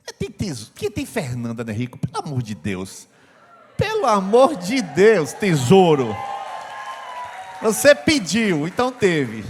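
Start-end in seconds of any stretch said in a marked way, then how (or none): 3.8-9.4 loud exasperation. Acted. Exasperated preacher exclamation.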